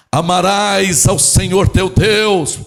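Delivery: loud, slow, grand declamation; hammed-up operatic recital, vowels held long; a tenor. Law expert showing off to Jesus, pompous tenor-like proclamation. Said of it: "aqui é um tenor".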